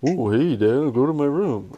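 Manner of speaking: singsong parroting, swooping pitch; mocking kid. Boy sent to his room mimics dad, mocking. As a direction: imitate a child making fun of dad. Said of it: "He'll make fun of you".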